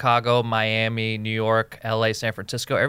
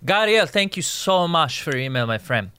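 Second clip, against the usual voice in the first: mock Latino accent, pitched up at first; put-on Latino accent; 5 semitones higher than usual. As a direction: thank a listener in a hammed-up Latino accent. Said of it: "is a Latino name in my head".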